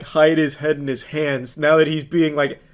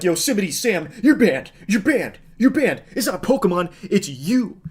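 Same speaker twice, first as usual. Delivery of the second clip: mocking the streamer; 4 semitones higher than usual. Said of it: "he's out here firing from the hip here like".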